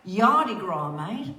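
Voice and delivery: playful put-on Australian accent. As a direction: say it like a matey Australian. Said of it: "doing it with an Australian accent".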